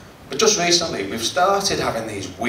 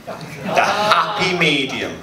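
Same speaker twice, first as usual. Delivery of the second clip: mild Derek Acorah; 3 semitones higher, slower than usual. Retold or imitated. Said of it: "I know that as the Derek Acorah".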